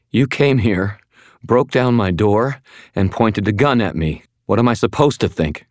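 protest, shaken and accusing; upset protest. Acted. Frightened woman protests at gunpoint.

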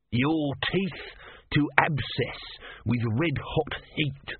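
high, slow, strange voice; cursing tortoise god. Acted. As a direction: hurl the curse up from the basket.

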